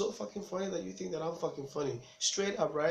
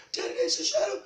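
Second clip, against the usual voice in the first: squealed high and loud; hammed-up falsetto child alarm; panicked child; 6 dB louder than usual. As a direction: insist in terror like a little kid. Frightened child insists to dad.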